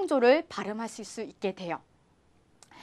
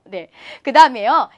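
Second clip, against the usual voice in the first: ordinary delivery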